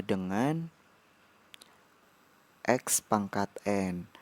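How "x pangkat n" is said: ordinary talk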